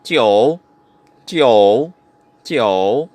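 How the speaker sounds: JIU dipping low then rising; "jiu" in a long falling-rising third tone; Mandarin pronunciation. Shown as a demonstration. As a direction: scoop "jiu" down and up. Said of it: "Number nine".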